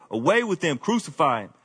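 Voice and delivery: mild mock yell. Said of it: "they yelled".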